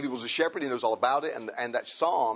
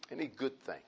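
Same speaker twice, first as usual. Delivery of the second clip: repeated much softer, almost to himself; soft echo; 11 dB quieter than usual. Shown as a demonstration. Pastor echoing the verse to the congregation, soft. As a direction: let it fall away quietly.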